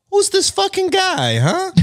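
high-pitched cartoon Italian-American mobster; hammed-up New York Italian wiseguy accent; fake mobster accent.

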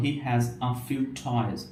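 toys said with a breathy t; slow careful toys; aspirated t demo. Shown as a demonstration. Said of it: "সেন্টেন্সের ব্যাপার দেখতে চাই".

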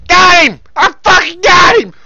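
high, excited shouting; triumphant yell. Real, not acted. Gamer celebrating a hit on an enemy, triumphant yell. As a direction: crow about the kill at full voice.

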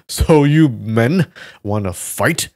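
slow, loud challenge; shouting. Acted. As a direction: call them out boldly.

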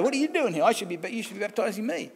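lightly voiced John, taken aback at Jesus; John the Baptist protesting. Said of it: "John the Baptist couldn't work that out".

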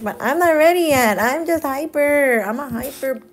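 high, excited puppy voice, loud at first then easing; hyper puppy. Acted. Speaking as the puppy who won't let everyone sleep, hyper. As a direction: voice a dog too wound up for bed. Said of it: "And he's like".

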